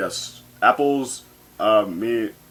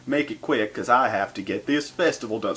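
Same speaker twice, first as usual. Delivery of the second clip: dismissive brush-off; 2 semitones higher than usual. Retold or imitated. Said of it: "She's like".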